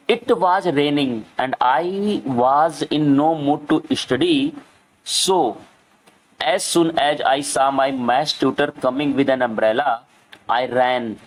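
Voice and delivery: reads each English word very slowly for the class; slow reading aloud. Shown as a demonstration. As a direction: spell it out slowly for children. Teacher reads English text aloud. (धीमे-धीमे पढ़कर सुनाना)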